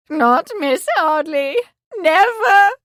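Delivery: mother refusing her son's bride; hysterical refusal. Acted.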